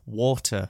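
WATER with a twang on the A; "water" demonstrated with its T. Shown as a demonstration. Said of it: "the A twang as well".

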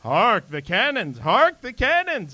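declaimed stage line with swooping pitch; theatrical, slow, sing-out delivery; excited rehearsing actor. Acted. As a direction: rehearse your one big line, drawn out and grand. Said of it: "he's running around going".

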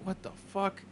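whispered, stunned what the fuck; hushed disbelief. Retold or imitated. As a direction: breathe it out in shock. Retold shock on a request for a singer.

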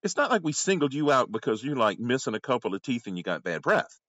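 lecturing a maskless man, half-acted; retelling telling off a customer, mock exasperated; retold scolding.

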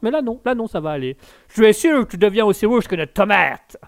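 mock exasperation rising; losing patience. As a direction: let the patience snap in hammed-up irritation. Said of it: "Je sens que je vais perdre patience".

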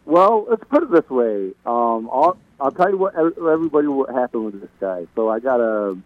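muffled phone line. Real, not acted. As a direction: sound like a bad muffled call. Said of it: "you sound muffled".

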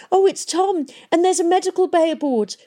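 high, loud, eager; bursting with sudden hope; excited. A narrator's reading. Hester excitedly telling Valentine the ship is here.

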